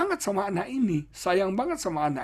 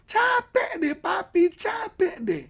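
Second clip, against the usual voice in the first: much higher whiny sigh; a teen groaning at parents; fed-up child; 3 dB louder, slower than usual. Retold or imitated. Child tired of parents' checking, whiny high complaint. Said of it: "Anak bilang".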